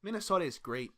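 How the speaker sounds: loud, high Minnesota cheer; Minnesota accent. Pretend. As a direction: overblown Minnesota nice. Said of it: "That's a Minnesota accent".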